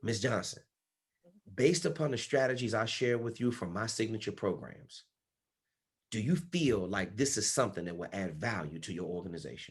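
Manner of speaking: hushed, very low voice, almost a half-whisper. Coaching someone on how to ask a client a question, almost a half-whisper. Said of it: "bring your voice almost down to a whisper".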